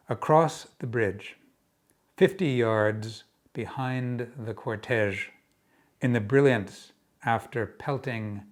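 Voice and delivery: measured verse with spacious pauses; deliberate poem recital, easing off at the end; poetry reading. Acted. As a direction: unfold the poem phrase by phrase. Reads own poem aloud.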